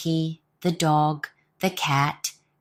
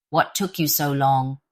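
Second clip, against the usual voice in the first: grumbled; 3 semitones lower than usual. Acted. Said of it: "grumbled the leader".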